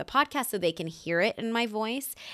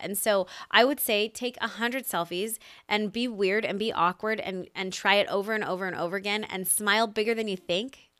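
ordinary talk, nothing marked

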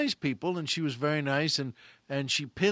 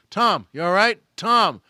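much louder, higher worried shout; alarmed call; 3 semitones higher, 10 dB louder than usual. Retold or imitated. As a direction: call out to a stunned friend. Calling to a dazed friend.

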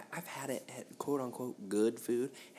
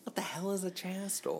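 mock outrage; 9 semitones higher than usual. Mocking the wrong word.

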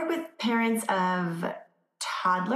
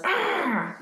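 a toddler's high mock roar; 10 semitones higher than usual. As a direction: roar like an upset little kid. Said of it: "say your little one goes".

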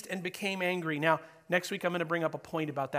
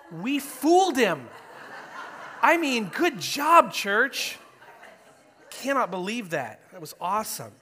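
laughing; 5 semitones higher, 9 dB louder than usual. Real, not acted. Pastor jokes after praise of organization.

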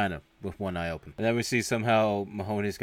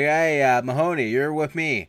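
louder, higher imitation of a lieutenant; mock bossy order; 5 semitones higher, 7 dB louder than usual. Lieutenant ordering cadet along, mock bossy. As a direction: call him over like a superior.

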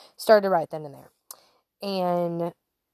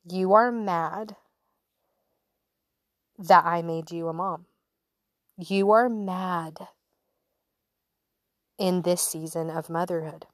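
gentle divine voice. Retold or imitated. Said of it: "He literally spoke to me and said".

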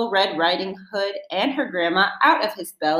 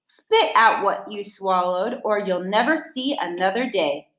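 angry shout. Acted. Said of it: "the ranger shouted".

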